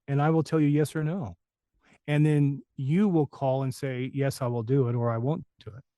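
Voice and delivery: lightly voiced veteran laying down terms, measured pauses; imitating Ed Grover. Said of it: "he said".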